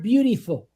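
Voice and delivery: "beautiful" with the middle i as a long "ee". Shown as a demonstration. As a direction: say "beautiful" as "beau-tee-ful". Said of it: "That I in the middle is enunciated and pronounced as a long E".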